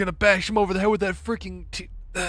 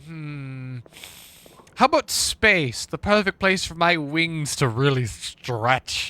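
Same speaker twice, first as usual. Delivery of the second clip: in-character harpy musing; slower than usual. Retold or imitated. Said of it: "in character".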